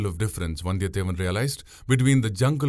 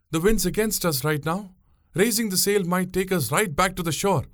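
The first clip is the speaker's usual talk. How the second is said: put-on much higher young woman's voice, matter-of-fact; explaining; 9 semitones higher than usual. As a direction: set him straight about the wind. Pungureli explains the wind.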